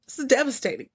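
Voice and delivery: a crying, high-pitched wail over the smashed bowl; half-laughing sob of dismay; real tearful dismay. Real, not acted. Viewer mourning the broken dish, crying out high. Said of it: "I was done".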